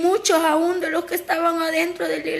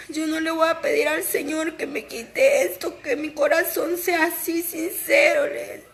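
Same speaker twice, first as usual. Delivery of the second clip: real tearful testimony. Real, not acted. Woman telling church of her fear of failing God, tearful. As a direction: voice catching with held-back tears. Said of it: "yo soy una gran llorona".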